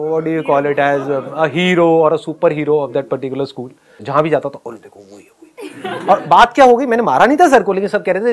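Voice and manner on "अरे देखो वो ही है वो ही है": whispered gossip. Retold or imitated. Kids whispering about him.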